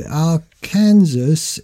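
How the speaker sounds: "Arkansas" carefully as ar-KAN-saw; slow "Arkansas" with a SAW ending; corrected pronunciation of Arkansas. Shown as a demonstration. Host trying out the corrected state name, careful pronunciation. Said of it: "is actually pronounced Arkansas".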